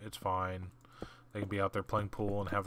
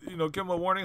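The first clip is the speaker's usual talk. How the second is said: much higher whiny pleading; mock pleading friend; 9 semitones higher, faster than usual. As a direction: imitate the buddy begging for leniency. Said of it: "he's sitting there just like".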